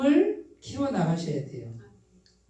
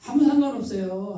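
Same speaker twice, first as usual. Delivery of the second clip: louder, laughing through 아무 상관없어요 with 아무 stressed; 3 semitones higher, 4 dB louder than usual. Real, not acted. Preacher laughing off the dialect slip to her listeners. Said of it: "says it twice, laughing".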